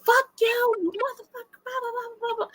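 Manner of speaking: high, shrill-pitched mock yell of curses; retold yelling. Yelling curses at the cheating partner, hammed-up. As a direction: fling the curses like a furious ex. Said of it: "now I'm yelling".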